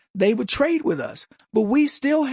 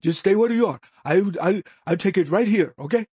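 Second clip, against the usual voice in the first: put-on Indian accent. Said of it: "I didn't wanna just do the Indian accent".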